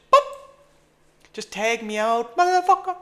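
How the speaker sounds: high, loud pleading yell; frustrated yell. Real, not acted. Trader begging the market to fill him, frustrated yell. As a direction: beg the order to fill. Trader begs to get filled.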